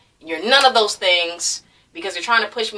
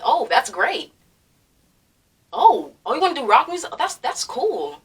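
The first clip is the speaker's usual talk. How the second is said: mild supportive teacher; 3 semitones higher than usual. Retold or imitated. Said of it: "I would have been okay with".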